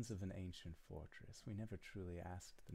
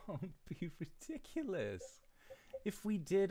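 scoffing laugh; 12 semitones higher, 6 dB louder than usual. Acted.

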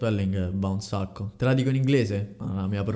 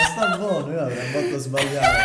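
laughing; 3 semitones higher, 4 dB louder than usual. Real, not acted. Laughs at the result.

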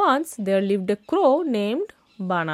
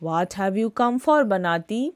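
calm question; faster than usual. Acted. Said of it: "asked calmly".

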